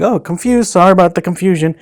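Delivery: high, sing-song mock apology; mocking customer service. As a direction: parody their fake-sorry tone. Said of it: "they kept trying to say like".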